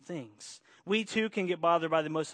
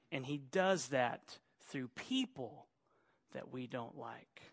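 softer echo of the line before; quieter repeat; 4 semitones lower, 7 dB quieter, slower than usual. Shown as a demonstration. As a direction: repeat it softer, dropping away.

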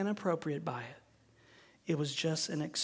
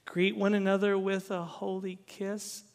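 the verse repeated as a wary question; "Greet one another with a holy kiss?" asked with uneasy disbelief; awkward doubtful question; 2 semitones higher than usual. Shown as a demonstration.

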